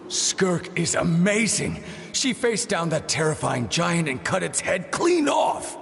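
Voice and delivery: high, thrilled shout of admiration; excited. Acted. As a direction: gush about the hero at the top of your voice. Kid gushing over hero's victory.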